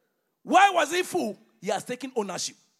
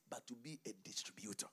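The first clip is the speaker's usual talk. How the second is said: dramatic whisper; 6 semitones lower, 11 dB quieter than usual. Acted. Preacher hushing the congregation for the key line, whispering. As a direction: drop to a hush for the point. Quiet climax after shouting.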